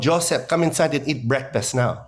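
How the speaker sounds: lightly voiced Filipino mom calling her son in; hint of a Filipino accent, mom calling to breakfast. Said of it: "my mom going".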